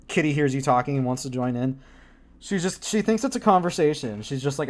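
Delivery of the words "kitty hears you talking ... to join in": ordinary delivery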